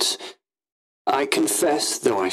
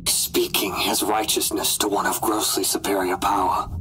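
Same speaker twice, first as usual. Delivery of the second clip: usual speaking voice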